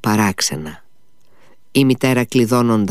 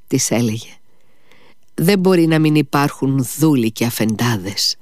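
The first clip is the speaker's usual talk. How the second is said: higher, rising ardour, fading at the end; fervent son; 4 semitones higher than usual. Acted. Dying son passionately explains to his mother, raised voice. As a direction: build with conviction then drop.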